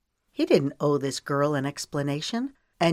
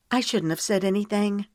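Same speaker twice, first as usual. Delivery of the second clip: lighter, higher female voice; young woman's voice; 4 semitones higher than usual. Acted. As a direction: voice her as a flustered young woman. Young woman regrets speaking.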